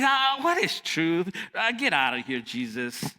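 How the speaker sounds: a light mocking shrug of a voice; dismissive Pilate. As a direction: wave Jesus away, unimpressed. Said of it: "That's what Pilate, he's".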